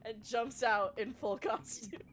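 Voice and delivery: excited showing off. Acted. Excited player showing costume.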